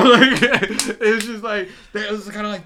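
high, loud laughing and slow; slow laugh-filled lead-in. Real, not acted. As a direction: let the laugh stretch the words out. Laughing, recalling the rush.

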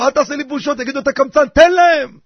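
high scolding wife, building to a shout. Acted. Wife shouting at her stingy husband, rising to a loud order. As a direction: nag him, then blast out the last order. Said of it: "אשתו צועקת לו".

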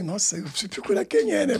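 amused reply through a laugh. Retold or imitated. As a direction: laugh while saying it. Retells his laughing reply. (rindo, meio brincando)

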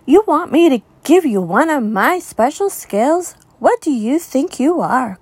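high, indignant proud fish; indignant cry. Acted. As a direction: cry out offended and haughty. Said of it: "cried the rainbow fish".

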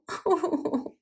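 high, falling "oooh" of grief; mock sobbing wail. A narrator's reading. Forsaken wife grieving for her husband, mock sobbing wail. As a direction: wail like a storybook widow. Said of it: "she sobbed".

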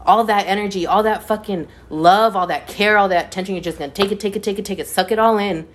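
heated, fast indignant rant; passionate rant. Real, not acted. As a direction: lay into them with real indignation. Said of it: "I'm getting passionate".

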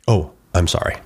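quick, reflexive courtesy sorry; automatic polite apology. Acted. To a shopper whose cart he bumped, automatic and polite. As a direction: toss off an unfelt apology. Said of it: "but am I really sorry?".

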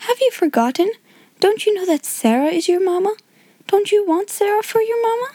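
put-on high, coaxing girl's questions; cheerful. A narrator's reading. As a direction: cajole a little child out of crying. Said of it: "said Sarah cheerfully".

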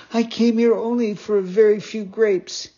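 a touch of tearful begging; sobbing. Acted. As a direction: puppet explaining through mild tears. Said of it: "sobbing bitterly".

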